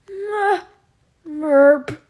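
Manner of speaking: high, loud goofy squeak; silly merp greeting. Acted. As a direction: blurt it like a cartoon. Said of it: "I keep going".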